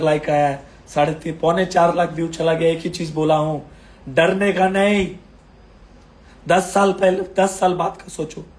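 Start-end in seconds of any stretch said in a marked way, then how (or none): 4.1-5.2 slow down and lean on डरने का नहीं, each word weighted; slow emphatic warning. Real, not acted. To nervous investors, slow firm stress on डरने का नहीं. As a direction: drive home डरने का नहीं slowly and firmly. Core advice to scared viewers.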